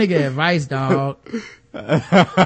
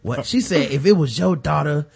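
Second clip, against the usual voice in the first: lightly voiced quivering-lip plea; a hint of a shaking tearful mother; Letty Mae pleading with quivering lips, lightly mocked; mock trembling plea; slower than usual. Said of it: "Lip quiver, lip quiver".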